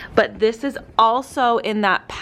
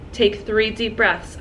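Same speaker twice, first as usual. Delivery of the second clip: calm guiding voice; slower than usual. Shown as a demonstration. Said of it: "I teach my students how".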